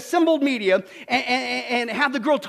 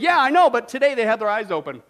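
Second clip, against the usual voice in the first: smiling punchline; 5 dB louder than usual. Retold or imitated. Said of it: "little Susie smiled and said".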